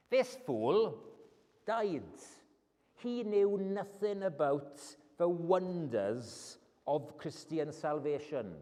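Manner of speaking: usual speaking voice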